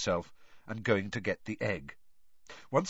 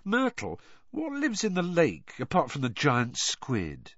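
put-on teen boy voice; 5 semitones higher than usual. Harry voiced by narrator.

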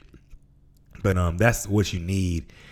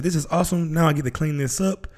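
high, bright mock delight; quoting his own upbeat self-talk, high and cheery; forced cheer; 9 semitones higher than usual. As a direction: act thrilled about cleaning up. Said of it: "I literally said this".

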